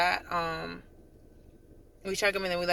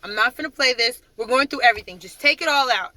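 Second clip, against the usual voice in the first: louder, higher retold command; retold stern order; 5 semitones higher, 6 dB louder than usual. Sergeant ordering privates to empty their wallets, stern. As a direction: lay down the law, retelling an order.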